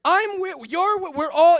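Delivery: comic shouting his point to the crowd, slow and loud; yelled punchline. Real, not acted. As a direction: bellow it out, dragging every word.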